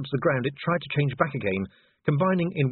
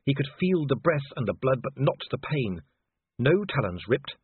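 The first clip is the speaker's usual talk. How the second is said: ordinary delivery, nothing marked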